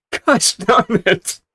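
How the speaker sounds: put-on loud, slow old-timer oath; gruff character curse. Character cursing the leaping piranhas, loud and drawn out. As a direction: stretch the curse out like a grumpy old prospector.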